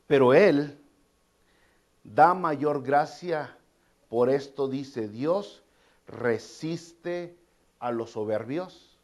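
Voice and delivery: slow, weighty verse reading; scripture reading. Acted. Preacher reading verse six to the congregation: slow solemn. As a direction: read the verse slowly, let it land. Reads Bible verse aloud.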